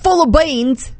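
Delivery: high-pitched, shaky-at-best British accent; attempted British accent. Shown as a demonstration. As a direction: have a go at a British accent, badly. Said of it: "say these all with a British accent".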